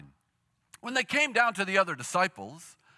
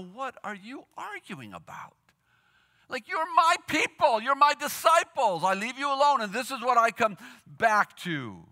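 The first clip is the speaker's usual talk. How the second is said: exasperated parent, rising up high; parental scolding; 4 semitones higher than usual. Retold or imitated. Jesus to his arguing disciples, in a parental scold. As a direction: scold them like a let-down parent. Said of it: "Jesus is in this parental voice".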